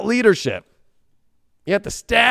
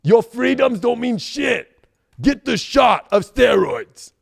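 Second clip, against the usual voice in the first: hint of Arnold; 4 semitones higher, slower than usual. Mocking Artie, ex-governor from Austria.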